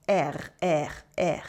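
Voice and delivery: R rolled deep at the back of the throat, low; throaty French R. Shown as a demonstration. A teacher demonstrating the French R, held low in the throat. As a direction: growl the R from the back of the mouth. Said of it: "tongue should be stuck at the back".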